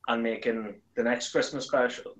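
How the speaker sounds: ordinary talk, nothing marked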